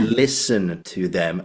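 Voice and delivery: slow, stretched "Listen"; imitated teacher, dwelling on "Listen"; Andrew Davidson. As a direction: drag out "Listen" like an instructing tutor. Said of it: "Every single time".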